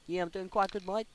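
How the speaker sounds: playing both sides of a Skype call to Australia in a weak Australian accent; bad Australian accent. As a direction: ham up a poor Australian accent chatting with a mate. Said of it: "Oh, I can't even do accents".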